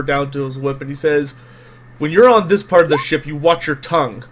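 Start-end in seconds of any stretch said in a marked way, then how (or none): 2.0-4.2 mildly menacing warning, starting quick and loud; Gustav. Acted. Game master as Gustav warning a crewmate, hand near whip, threatening. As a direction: warn with a touch of danger. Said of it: "his eyes will flash a little bit dangerously".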